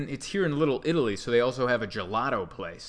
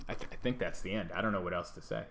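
trailing off; 6 semitones lower, 9 dB quieter, faster than usual. Real, not acted.

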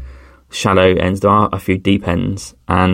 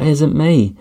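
put-on girlfriend's protest; 7 semitones higher than usual. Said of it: "She's like".

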